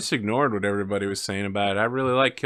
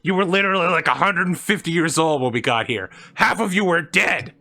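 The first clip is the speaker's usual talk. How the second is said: mock-angry captain, pitched up; Janeway's defiant outburst; 4 semitones higher, 3 dB louder than usual. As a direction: play a captain telling off the crew, half in earnest. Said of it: "She's like".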